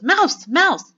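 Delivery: high, loud alarm cries; shouts. A narrator's reading. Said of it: "There were no shouts of".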